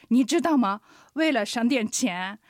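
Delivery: a dad scolding his daughter over lesson money; father scolding his daughter Mingming; angry father. Retold or imitated. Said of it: "お父さん怒ってこう言うんですよ".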